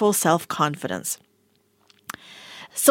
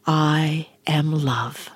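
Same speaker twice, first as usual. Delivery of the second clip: whispered affirmation; 7 semitones lower, much slower than usual. Shown as a demonstration. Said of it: "repeat after me".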